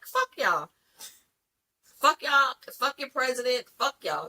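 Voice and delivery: mock Biden, brushing everyone off; cocky send-off, mostly in her own voice; defiant dismissal. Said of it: "That's what he said".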